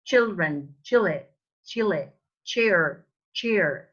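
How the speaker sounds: put-on "children, chile, chair" each with crisp "tch"; model CH words. Shown as a demonstration. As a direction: say each "ch" word separately with falling tune. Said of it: "the sound is ch".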